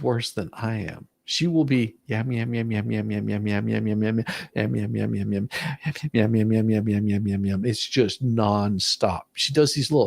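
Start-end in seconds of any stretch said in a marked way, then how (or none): 2.3-7.6 yum-yum on and on like she never stops; mock babbling. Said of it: "She's all talk".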